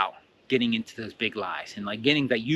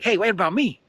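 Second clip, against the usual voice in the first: negative overlayer; 8 semitones higher, 4 dB louder than usual. Acted. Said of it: "negative overlayer is gonna start".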